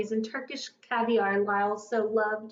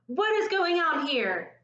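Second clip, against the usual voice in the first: higher and slower furious demand; charged with fury; 6 semitones higher, slower than usual. A narrator's reading. Store manager bursting in on the show, furious. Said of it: "charged with fury".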